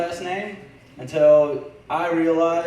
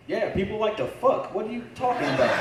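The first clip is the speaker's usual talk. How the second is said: high-pitched incredulous comeback; exasperated, higher acted reply; mock exasperated retort; 7 semitones higher than usual. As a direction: answer back as if the question is absurd, voice jumping up. Acted retort in retold exchange.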